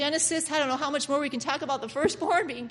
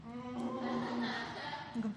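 eating noise; 13 dB quieter than usual. Shown as a demonstration. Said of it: "Go like this".

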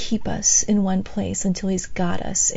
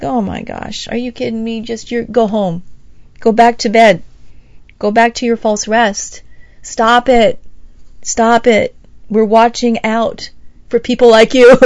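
scolding watchmen; 6 dB louder than usual. Retold or imitated. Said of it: "They're like".

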